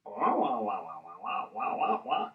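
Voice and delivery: wordless wah wah babble, dropping away; mock muffled wah sound. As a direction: imitate a garbled far-off voice. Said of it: "you hear this sound".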